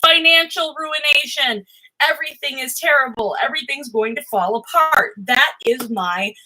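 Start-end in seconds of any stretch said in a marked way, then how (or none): 0.0-5.1 high, hammed-up panicked voice on "Oh my gosh", then easing down; mock panic. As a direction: play your own catastrophizing for laughs. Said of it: "I think of this and I go".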